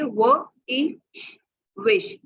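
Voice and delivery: वो इश विश, sounded out then blended; blending sounds slowly. Shown as a demonstration. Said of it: "इसको हम पढ़ेंगे". (धीरे-धीरे ध्वनियाँ जोड़ते हुए)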